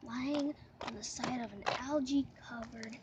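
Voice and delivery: hushed wildlife narrator whisper; nature documentary. Pretend. Whispered wildlife narration of dead bird.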